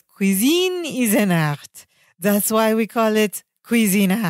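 slow mock-French accent. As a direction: put on a French chef's accent. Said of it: "he puts on this French accent".

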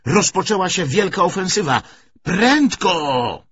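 loud, high-pitched alarm cry; urgent shout. A narrator's reading. Man announcing the great offensive to his lover, shouting urgently. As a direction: shout to hurry someone out. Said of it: "krzyknął".

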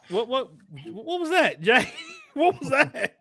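high, sped-up helium-like voice; chipmunk voice. Real, not acted. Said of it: "why do you sound like a chipmunk on my end".

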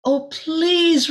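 delighted. Acted. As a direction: burst out in happy delight. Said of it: "Rosella smiled".

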